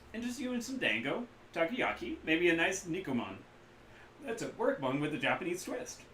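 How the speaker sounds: high, loud eager hawker voice; cheerful street vendor. Acted. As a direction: sell it like a pushy vendor. GM voices food vendor Kaida.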